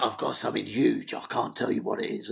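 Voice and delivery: hint at big news without giving it away; impression of a rock singer. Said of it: "And he went".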